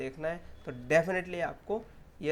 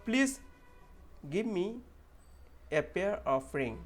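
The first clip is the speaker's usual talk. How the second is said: slow model sentence; 3 semitones higher, much slower than usual. Shown as a demonstration. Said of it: "इसके बाद".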